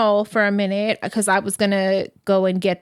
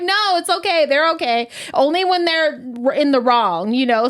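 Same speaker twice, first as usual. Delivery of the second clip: put-on kid voice; 5 semitones higher than usual. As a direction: mimic a little girl cussing. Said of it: "and I'm like".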